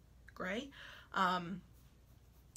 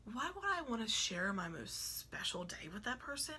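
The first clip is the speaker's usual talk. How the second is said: lightly put-on sweet voice; a hint of a fake-nice voice; 3 semitones higher than usual. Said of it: "I don't know why I do that voice".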